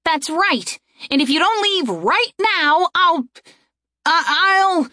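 high, faltering threat. Acted. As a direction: raise your voice to threaten, then falter. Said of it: "raised her voice".

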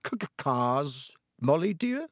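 stammering, caught out; guilty stammer. Acted. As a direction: stutter the c of cars, nervous. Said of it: "He stared guiltily at his wife".

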